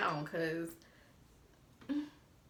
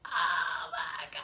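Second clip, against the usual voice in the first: slow, horrified whisper; mortified whisper; 4 semitones higher, much slower than usual. Retold or imitated. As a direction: breathe it out, caught red-handed. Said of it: "and I was like".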